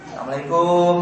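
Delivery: "Assalamualaikum" quick and clipped like "Selamat pagi"; greeting intonation. Shown as a demonstration. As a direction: toss off "Assalamualaikum" as a casual hello. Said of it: "disesuaikan dengan intonasi sapaan". (salam dengan nada sapaan)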